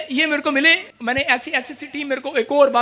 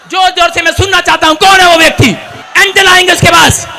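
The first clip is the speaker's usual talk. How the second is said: loud, high rallying cry; booming political rally speech; 6 semitones higher, 5 dB louder than usual. Acted. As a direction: whip the crowd up loudly. Urging the crowd to shout.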